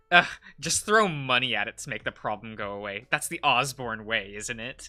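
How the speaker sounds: fast, sneering brat retort; a quick, mocking jab at his mother; sneering kid. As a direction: spit it out like a scornful twelve-year-old. Voicing angry kid retort.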